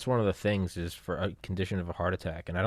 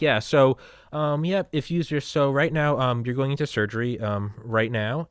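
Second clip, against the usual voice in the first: a hint of a hesitant doctor, pitched up; casual, higher-pitched surgeon quote; calm cardiologist; 6 semitones higher, 5 dB louder than usual. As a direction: lightly imitate a doctor easing into news. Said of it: "that's what the cardiologists".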